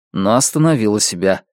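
usual speaking voice

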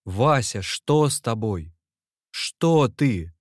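panicked shout, rising in pitch; frightened shout. A narrator's reading. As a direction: shout at a friend who won't answer. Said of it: "закричал он".

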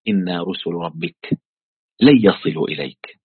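low, slow recital of the verse. Retold or imitated. Teacher quoting the angels to Lot, low measured recital. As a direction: recite it low, slowing on the first words.

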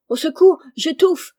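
loud, high, desperate cry; cry for help. A narrator's reading. Crushed lady screaming for help, loud and high. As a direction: scream out from under the crushing weight. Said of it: "s'écria la dame".

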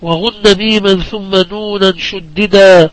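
slow, measured poem recitation; unhurried scholarly verse delivery; didactic verse recitation. Acted. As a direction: recite the rhymed verse with drawn-out line endings.

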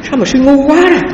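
hammed-up retold rebuke from the master; mock rebuke. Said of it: "Mình tưởng đâu mình về thay thầy nữa".

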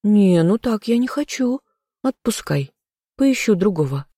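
high, teasing mock huff; feigned refusal. A narrator's reading. Heroine pretends she will find another man, high mock protest. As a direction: play at brushing the lover off. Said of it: "фыркнула в ответ наигранно".

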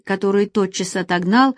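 usual speaking voice

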